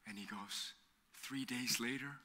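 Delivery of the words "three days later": hushed dramatic reveal. Retold or imitated. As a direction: drop to a hush, whispering the last words. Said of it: "why did you have to say it like that?".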